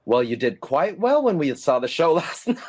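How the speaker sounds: quoting him through a laugh; laughing retort. Retold or imitated. Director teasing the auditioner he saw in the show, laughing. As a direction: let a laugh break into the line. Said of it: "And he said".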